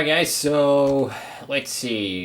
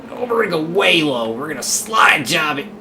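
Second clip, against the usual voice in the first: higher, louder sudden rush; excited shout; 6 semitones higher, 5 dB louder than usual. Real, not acted. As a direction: shout as the pass opens up. Going low to pass.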